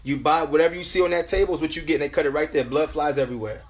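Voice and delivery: preacher testifying, pitched above chatting voice; insistent sermon delivery; emphatic preaching. Real, not acted. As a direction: press the point on the congregation. Resumes preaching after personal aside.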